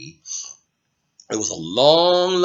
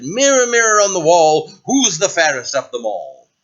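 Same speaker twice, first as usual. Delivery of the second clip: queen asking the mirror again; 3 semitones higher, 5 dB louder than usual. Acted. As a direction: summon the mirror with mild pomp.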